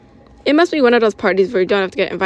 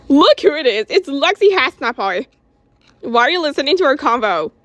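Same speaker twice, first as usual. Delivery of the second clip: put-on teasing teen voice; 6 semitones higher than usual. Teasing eighth grader voiced.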